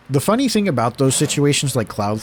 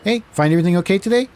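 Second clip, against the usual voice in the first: flat rote cashier; 6 semitones higher, 3 dB louder, faster than usual. Pretend. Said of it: "vocal interactions".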